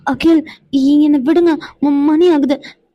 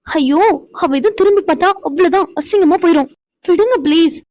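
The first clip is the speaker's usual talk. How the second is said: higher, coaxing plea; pleading whine; 4 semitones higher than usual. Acted. Wife pleads with teasing husband to let her go, high coaxing whine. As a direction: beg him to let go before she's seen.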